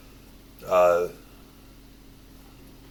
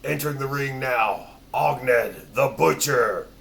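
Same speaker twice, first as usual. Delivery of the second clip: ring announcer; 4 semitones higher, 4 dB louder than usual. Acted. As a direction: announce him like a boxing MC. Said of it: "they're like".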